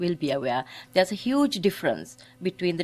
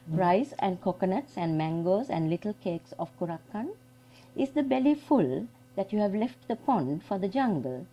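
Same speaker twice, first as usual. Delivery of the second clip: father's tender address; 2 semitones higher, 3 dB quieter than usual. Retold or imitated. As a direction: coax them gently like a loving father. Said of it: "he addresses them thi-, like this".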